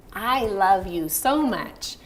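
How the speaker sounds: very slow and heartfelt, stress on so; sincere. Shown as a demonstration. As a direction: say it slowly from the heart. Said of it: "sincere emotion".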